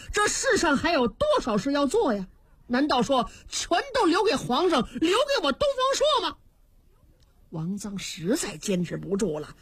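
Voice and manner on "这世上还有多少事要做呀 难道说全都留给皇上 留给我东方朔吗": indignant protest. Acted. Dongfang Shuo protests to officials.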